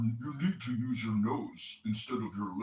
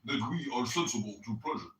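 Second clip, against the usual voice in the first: lightly put-on nasal voice, reading aloud; mock a friend's nasal voice while reading; a hint of a nasally Chicagoan read; mock Coptic. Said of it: "imitate Coptic as I read".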